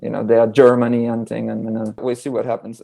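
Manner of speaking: speaking in a Jamaican patois accent. Shown as a demonstration. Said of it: "please go there ... use the Jamaican patois too".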